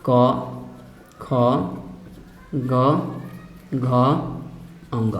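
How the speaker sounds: each letter क, ख, ग, घ, अंग alone, with long pauses. Shown as a demonstration. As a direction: recite the letters one at a time for students to repeat. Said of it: "तो क, ख, ग".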